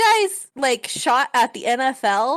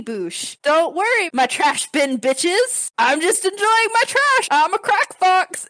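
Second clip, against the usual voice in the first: gloating villain voice, rising higher; sneering panto villain; 4 semitones higher than usual. Acted. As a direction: ham up a smug crooked artist. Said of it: "Tattoo artist is like".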